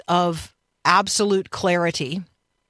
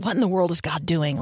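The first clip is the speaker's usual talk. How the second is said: appreciative. Shown as a demonstration. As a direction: let it sound grateful. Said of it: "One is appreciative".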